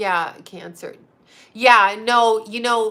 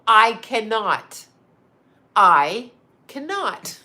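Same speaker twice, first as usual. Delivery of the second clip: exasperated refusal; 5 dB louder, slower than usual. Real, not acted. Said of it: "I just can't with Ryan O'Neal".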